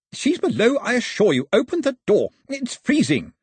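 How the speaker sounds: very high, loud and insistent; exasperated shout. A narrator's reading. Freezing gentleman shouting above the wind at the door. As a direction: shout to be let in from the cold. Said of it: "shouted above the roar of the wind".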